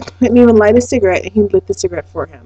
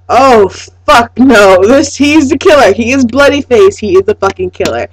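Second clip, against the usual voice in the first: horrified realization; 3 semitones higher, 4 dB louder than usual. Retold or imitated. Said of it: "I'm like".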